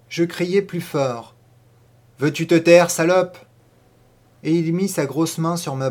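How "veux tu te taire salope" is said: angry threat. Acted. Boy silencing girl, louder.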